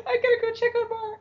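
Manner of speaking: talking through laughter; high, quick words squeezed out while laughing; Jane. Retold or imitated. Jane excusing herself to check on Mara, laughing. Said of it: "And she's still laughing".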